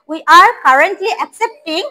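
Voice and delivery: very slow, clear drill; slow model reading. Shown as a demonstration. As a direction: spell it out word by word for the class. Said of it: "হ্যাঁ". (ধীরে ধীরে স্পষ্ট করে বলা)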